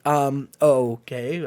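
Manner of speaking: slow, low, drawn-out reply; hesitant waiter. Acted. Waiter reacting to a customer freaking out, hesitant. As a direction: answer uncertainly, stretching it out. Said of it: "the waiter's just like".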